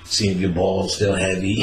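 ordinary talk, nothing marked

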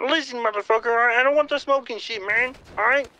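nasal frog puppet voice, repeated; Kermit voice. Acted. Second caller demanding who it is, as Kermit. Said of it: "Yo, Kermit".

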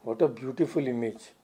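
hushed aside to oneself; barely audible remark. Retold or imitated. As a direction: quote it low and softly, just audible. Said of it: "said in a little audible voice".

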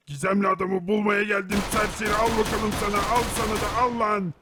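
battle shout. Acted. Herobrine yelling at attackers as he strikes, battle shout. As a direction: shout each blow at the enemies.

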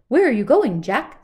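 loud barky dog. Acted. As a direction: bark the question like a dog. Dog character speaking.

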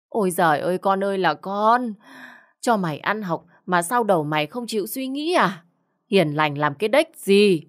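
wailing, fed-up mother's rebuke; exasperated scolding. Acted. Mother scolds son over his choice.

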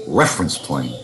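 normal talking voice

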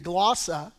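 "glossa" said the Greek way; Greek pronunciation. Shown as a demonstration. Preacher repeating the Greek word for listeners, Greek pronunciation of "glossa". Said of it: "that's how you pronounce it in the Greek".

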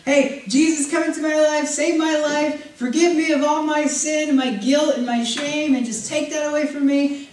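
a touch of a self-serving believer praying; mock naive prayer. Preacher imitating a comfort-seeking believer, mildly mock pleading. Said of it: "Everybody wants this wonderful gospel".

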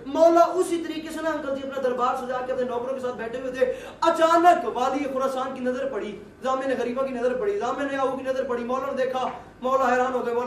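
rising intensity. Acted. Dramatic build of the story.

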